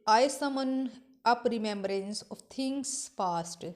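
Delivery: slow, drawn-out reading of verse; slow poem recitation. Acted. Teacher reciting Shakespeare to her class, slow and deliberate. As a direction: recite each line slowly, savouring it.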